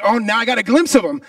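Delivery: rising alarm. Retold or imitated. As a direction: panic building as they close in. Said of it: "and it's like".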